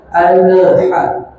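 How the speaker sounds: alha with the lam bounced. Shown as a demonstration. (contoh salah lam dipantulkan)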